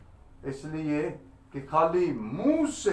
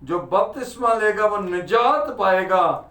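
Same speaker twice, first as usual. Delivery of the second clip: preaching; 4 semitones higher, 5 dB louder than usual. Acted. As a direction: preach the verse out to the congregation, stretching key words. Preaches the verse to congregation. (ज़ोरदार उपदेश, शब्द खींचकर)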